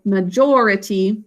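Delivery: majority with JOR stressed; majority, ma-JOR-ity. Shown as a demonstration. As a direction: lean on the second syllable of majority. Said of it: "putting the emphasis on this syllable".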